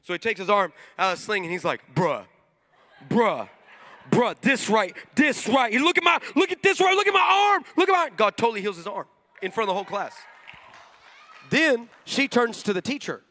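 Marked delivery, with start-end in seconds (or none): 1.9-8.2 mock jock disbelief building to loud excitement; mounting amazement. Football player's mounting amazement, acted.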